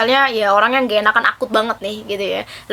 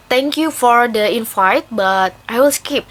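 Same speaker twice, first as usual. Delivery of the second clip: polite firm refusal; slower than usual. Shown as a demonstration. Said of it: "Eh, or".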